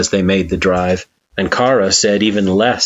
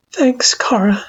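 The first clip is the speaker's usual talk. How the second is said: high, breathy whispered thanks. A narrator's reading. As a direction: whisper your thanks gently. Grateful after nightmare.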